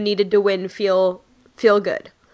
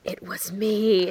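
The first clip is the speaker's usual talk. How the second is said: smug; 3 semitones lower, 5 dB quieter, slower than usual. Retold or imitated. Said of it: "smiled and I went".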